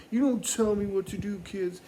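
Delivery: fast, high-pitched mock scolding; indignant dad. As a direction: imitate a dad defying the kids. Angry dad snapping back in story.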